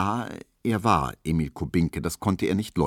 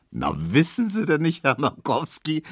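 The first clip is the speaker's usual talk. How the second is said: high, amused voice; a touch of laughter in the question; laughing call; 9 semitones higher than usual. A narrator's reading. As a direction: tell it through rising mirth. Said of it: "rief Tesch lachend".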